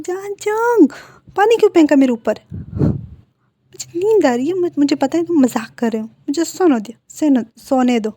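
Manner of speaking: whiny protest. Acted. Sleepy Wing protests splash.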